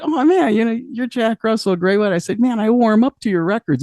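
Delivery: high-pitched fanboy gushing, retold; imitated starstruck gushing. Young singer to a rock singer backstage, high starstruck gushing. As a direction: gush at an idol, pitched well up.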